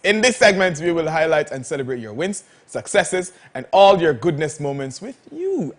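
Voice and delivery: upbeat sponsored segment announcer; host read. Acted. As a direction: present the segment brightly.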